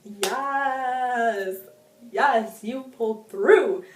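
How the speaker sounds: building from plain to loud cheering; cheering relief. Retold or imitated. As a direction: celebrate the character's comeback. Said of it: "I was like".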